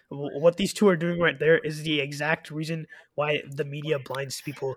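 slow, solemn address to the audience; mock message to viewers. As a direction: speak gravely straight to the camera, slowly. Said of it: "I have a message for the viewers".

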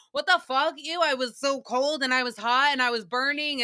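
hammed-up grumbling burst; mock outburst. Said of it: "she's in her interview and she's like".

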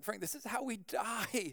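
very soft mock-doomed voice; comic retold dread, barely voiced; hushed dread. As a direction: say it under your breath like impending doom. Retold dread in scary room.

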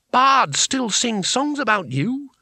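high, slow, insistent admiration; earnest praise. Acted. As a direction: make him remember his glory. Bethan pleading with fallen hero.

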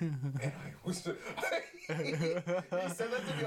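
laughing through the words, high; cracking up in disbelief. Real, not acted.

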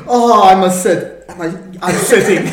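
lightly mock a panicking politician, half laughing; mock confused Biden.

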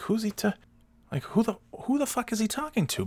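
high, hushed disbelief; who is he even talking to; baffled. Retold or imitated. Son baffled at dad in pool, high hushed disbelief. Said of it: "And I'm like".

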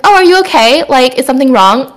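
mild, non-sassy concern; not rude, calling out. Acted. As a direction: gently check on them, a little pointed. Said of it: "not in a rude way".

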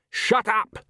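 high, sharp exclamation; a contained narrated shout, jumping up in pitch. A narrator's reading. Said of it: "shouted Agnes".

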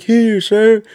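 high-pitched mock recruit reply; recruit snapping to answer. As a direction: imitate a startled recruit answering up. Recruit answers trooper's summons.

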